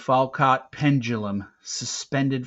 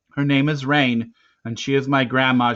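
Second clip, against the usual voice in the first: raised, loud, insistent voice; insistent correction; 3 semitones higher, 9 dB louder than usual. A narrator's reading. Boy correcting an officer about his grandma, insistent. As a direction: firmly set the record straight.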